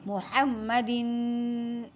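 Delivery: محمدن with the ن held in the nose, slow; nasal ghunna. Shown as a demonstration. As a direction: hum the final ن of محمدن. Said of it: "یہاں دن پہ غنہ ہوگا". (محمدن غنہ کے ساتھ)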